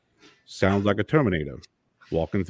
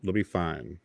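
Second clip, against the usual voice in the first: Morgan Freeman voice. Pretend. Husband offering his fiancee a latte, mild Morgan Freeman voice. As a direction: keep soothing her as a gentle Morgan Freeman. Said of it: "and I just go".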